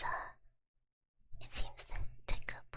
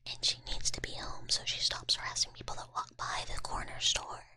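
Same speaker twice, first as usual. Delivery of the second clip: punchy advertisement read kept in a whisper; 4 dB louder than usual. Acted. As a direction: sell it like a spam ad, all in whisper. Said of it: "Should I do this in the voice?".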